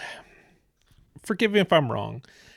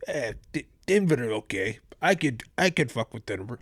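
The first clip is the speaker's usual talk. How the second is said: lightly voiced Slavic accent, offhand; a hint of a Russian-sounding player shrugging it off. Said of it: "he sounds like a little Russian guy".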